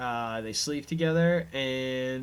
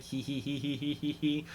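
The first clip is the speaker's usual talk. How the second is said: mock giggle; 5 dB quieter than usual.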